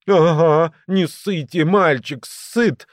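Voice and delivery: high, quick retort; said quickly. A narrator's reading. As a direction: jump in hastily, pitched well up. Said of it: "быстро проговорил Грыжа".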